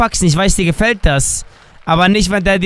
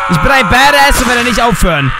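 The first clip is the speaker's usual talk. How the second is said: defiant shouting; 3 semitones higher than usual. Real, not acted. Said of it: "Kannst du aufhören zu schreien".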